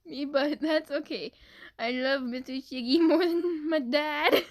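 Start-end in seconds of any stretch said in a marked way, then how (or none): 1.8-4.4 slow, giggling read; slow line broken by real giggles; laughing through words. Real, not acted. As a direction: read it while cracking up. Reading comment while laughing.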